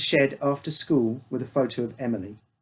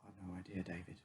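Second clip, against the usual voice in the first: curt; 5 semitones lower, 22 dB quieter, faster than usual. A narrator's reading. Father evasive.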